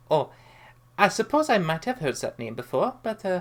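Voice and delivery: smiling, calm and collected. Voicing a character who breaks a stare-down, smiling, calm and collected. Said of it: "he just kind of smiles and goes".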